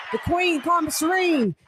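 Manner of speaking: hype shout-out. Real, not acted. Hyped roll call shout.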